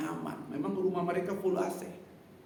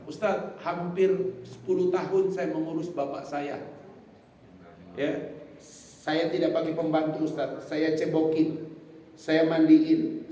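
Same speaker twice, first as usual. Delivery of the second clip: proud earnest claim; 3 dB louder than usual. Retold or imitated. Congregant retells proudly.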